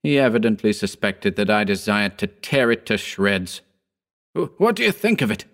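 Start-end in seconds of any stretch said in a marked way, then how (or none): 4.3-5.5 high, quick, eager question; rushed, excited exultation; exultant cry. A narrator's reading. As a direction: cry it out in triumph, pitch up. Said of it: "he cried exultantly".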